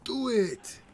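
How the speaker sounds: high, loud urging yell; excited shouting. Real, not acted. Player yelling at the ice elemental, excited loud urging. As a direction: egg the monster on, loud and high. Urging a game enemy to freeze him.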